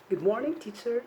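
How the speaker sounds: cheerful smiling good morning; with a smile. Shown as a demonstration. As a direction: greet the teacher with a smile in your voice. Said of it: "you can always say this with a smile".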